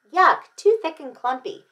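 high, loud yuck of distaste; storybook disgust. A narrator's reading. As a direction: recoil from a bad mouthful. Goldie rejects the congee.

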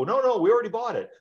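acted client, correcting. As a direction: set the agent straight.

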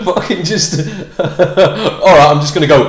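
ordinary delivery

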